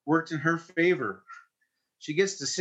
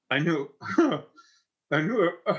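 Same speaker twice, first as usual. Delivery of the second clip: choked up; 2 semitones higher than usual. Real, not acted. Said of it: "the start point that always gets me".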